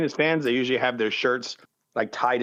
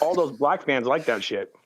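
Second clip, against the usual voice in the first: mouth full. Real, not acted. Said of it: "are you feeling food while talking".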